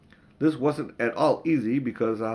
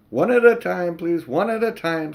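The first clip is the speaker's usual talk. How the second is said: harried policeman; 6 semitones higher, 6 dB louder than usual. Acted. Policeman controlling crowd.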